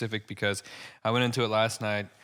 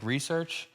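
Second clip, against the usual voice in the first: "Research" as re-search, questioning, pitched up; re-search wordplay; 4 semitones higher, 4 dB quieter than usual. Retold or imitated. Comic delivering his wordplay joke, questioning re-search. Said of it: "Obviously, research is, like, not what research is".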